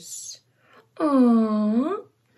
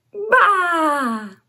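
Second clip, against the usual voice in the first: 1 baa like a lamb; 5 semitones higher than usual. Acted. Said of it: "Can you baa?".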